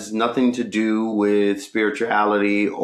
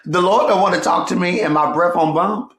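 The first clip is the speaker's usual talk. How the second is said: mock self-talk; 9 semitones higher, 4 dB louder than usual. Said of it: "And I'm like".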